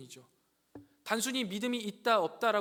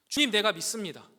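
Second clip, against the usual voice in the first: loud cry of faith, raised; 3 semitones higher, 8 dB louder than usual. Acted. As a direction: call out to the Lord with all you have. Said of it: "소리쳐요". (외치듯 크게 "내가 믿습니다")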